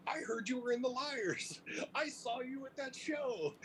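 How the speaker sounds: high breathy whisper; hushed awe. Retold or imitated. Bassist telling a fellow musician he saw that show, high whisper. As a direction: hush it like a secret. The bassist recalling the show.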